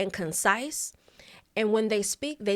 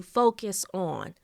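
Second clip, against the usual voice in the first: FOCUS ON drawn out and set apart; emphasis on FOCUS ON; slower than usual. Shown as a demonstration. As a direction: stretch FOCUS ON so it stands out. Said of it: "Notice the difference between focus on".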